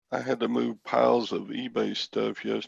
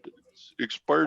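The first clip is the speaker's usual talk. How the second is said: imitated Indian accent; 4 semitones higher, slower than usual. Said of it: "you could do that accent".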